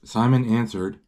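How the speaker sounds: measured read-aloud storytelling; story narration. A narrator's reading. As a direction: read the picture book out clearly.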